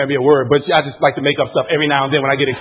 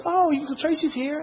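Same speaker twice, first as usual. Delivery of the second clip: boss's voice; 11 semitones higher, 7 dB quieter, slower than usual. Retold or imitated. Voicing the boss in a story.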